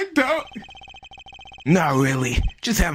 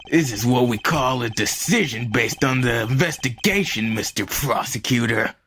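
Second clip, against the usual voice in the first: low detective voice; 4 semitones lower than usual. Acted. Plays investigator character.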